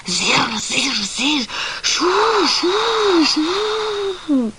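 buzzing zirr, then a long airy sú, rising high at the end; insect and wind noises. Acted. Puppy mimics night noises for his brother, playful sound effects. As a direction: imitate the bugs and the breeze under the bush. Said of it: "így".

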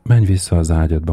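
usual speaking voice

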